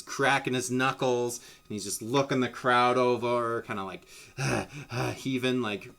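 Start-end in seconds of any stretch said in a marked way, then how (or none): 4.1-5.1 heavy breathing. Acted. Fighter working himself up before a brawl, heavy breathing. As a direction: huff like a fighter psyching himself up. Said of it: "breathing heavy".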